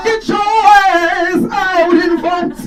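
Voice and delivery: high, loud diva impression; booming grand diva swagger; Jennifer Lewis. Comic doing Jennifer Lewis for the crowd, high grand diva voice. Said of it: "sound like her".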